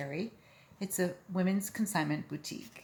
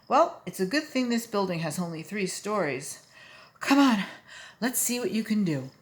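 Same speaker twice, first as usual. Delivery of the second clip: Mister Popper voice; 4 semitones higher, 4 dB louder than usual. Acted. Popper coaxing penguin.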